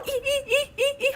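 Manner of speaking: quick high, soft squeals; string of tiny high yelps; panicked squeals. Real, not acted. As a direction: squeal in little bursts of panic. Panicking at near fall.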